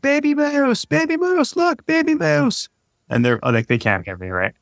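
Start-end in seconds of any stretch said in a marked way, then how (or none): 0.0-2.7 high, excited calling. Retold or imitated. Dad calling to kids at the bottom of the hill, high excited call. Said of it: "I'm yelling to my kids".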